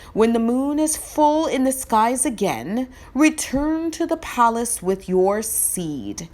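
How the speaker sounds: royal messenger. Acted. Messenger reading the scroll to the boys, formal proclamation.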